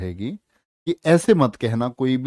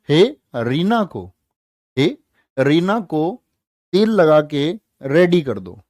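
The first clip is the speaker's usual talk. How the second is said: playful mnemonic; 2 semitones higher, 3 dB louder, slower than usual. Pretend. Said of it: "Harina को ऐसे पूछ लो".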